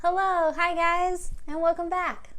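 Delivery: sweet friendly hello; nice hello. Shown as a demonstration. Teacher shows the kids a nice hello. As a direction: say it kindly. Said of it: "Let's say hello as nicely as we can".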